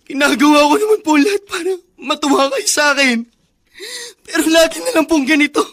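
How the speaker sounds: choked-up, hurt pleading; tearful pleading. Acted. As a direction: plead through tears that you always try. (umiiyak na pakiusap)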